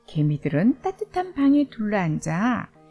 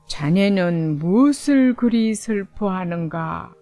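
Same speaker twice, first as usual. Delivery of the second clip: put-on slow, grave old man voice; 3 semitones lower, 3 dB louder than usual. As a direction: speak like a wise old spirit. Old man from lake speaks.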